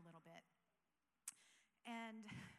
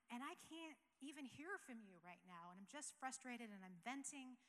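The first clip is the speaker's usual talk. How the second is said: retold cry of frustration, pitched up at first; frustrated venting to God; 3 semitones higher than usual. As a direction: vent it out to God, exasperated. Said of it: "I'm angry".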